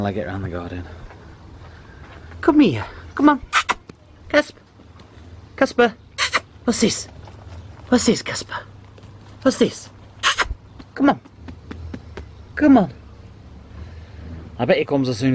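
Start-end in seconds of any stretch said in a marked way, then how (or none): 2.4-12.9 high sing-song pet voice; high pet-talk calling; coaxing the cat. Real, not acted. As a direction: coax the cat over, high pitched.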